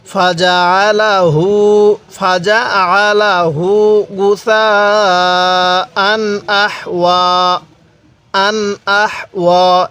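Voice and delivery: গুসাআন held very long over four counts; four-alif madd. Shown as a demonstration. Teacher showing long madd in গুসাআন, very slow. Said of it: "চার আলিফ টান দিব".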